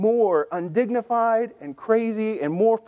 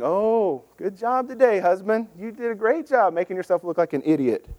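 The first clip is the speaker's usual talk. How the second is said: sarcastic. Retold or imitated. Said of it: "we need a sarcasm font".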